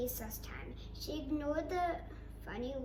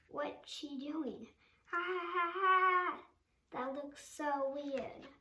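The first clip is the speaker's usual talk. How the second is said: slow, teasing schoolyard jeer with a laugh; mock her like a mean kid; 3 semitones higher, 3 dB louder, slower than usual. Children making fun of Anna, teasing.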